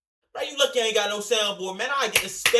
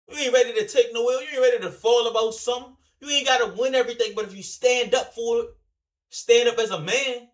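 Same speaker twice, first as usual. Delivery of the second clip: loud, raised, calling him out; angry lecture, higher and louder; heated rant; 6 semitones higher, 6 dB louder than usual. Real, not acted. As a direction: scold him hard and loud. Ranting at another streamer.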